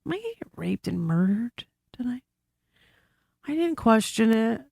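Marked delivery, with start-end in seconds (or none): 0.0-2.2 fast, breathless whisper of a scared guest; mock fearful whisper. Alone at a creepy motel, whispering her fear. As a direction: hiss it like you fear being overheard.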